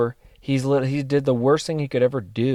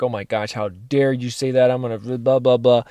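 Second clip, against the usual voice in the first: mock outrage. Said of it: "I could have been like".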